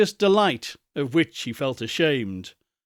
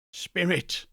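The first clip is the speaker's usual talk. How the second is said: put-on raised, pleading old man's cry; frightened Scrooge; 5 semitones higher, 6 dB quieter than usual. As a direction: call to the ghost in dread.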